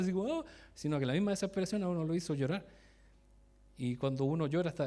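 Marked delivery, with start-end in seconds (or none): 0.4-0.5 brief put-on crying "oh"; mock crying wail. Man showing how he was not crying, mock wail. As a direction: imitate an exaggerated cry. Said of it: "no estaba así llorando".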